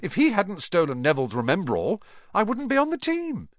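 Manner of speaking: rising high and delighted; gleeful. Acted. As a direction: let the glee build. Harry gleeful on stairs.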